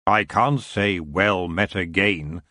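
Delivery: a hint of a lazy, regal king; the elf king greeting Tiffany with cool amusement.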